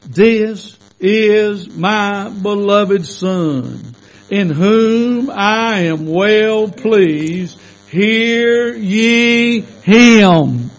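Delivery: very slow, drawn-out voice of God; slow solemn booming proclamation; voice from the cloud. Retold or imitated. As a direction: read it like God speaking from the cloud. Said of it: "a voice out of the cloud which said".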